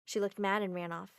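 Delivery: usual speaking voice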